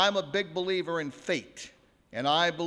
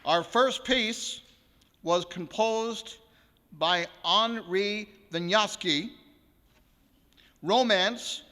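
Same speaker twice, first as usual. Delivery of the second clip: concert announcement. Acted. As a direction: present the piece to the hall with ceremony. Formally announces the first piece.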